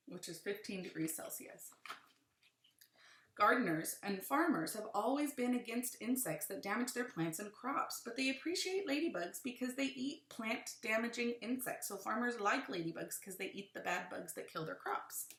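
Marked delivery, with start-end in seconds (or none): 3.4-11.9 put-on reading to children. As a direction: lively, clear read-aloud. Reads book aloud to children.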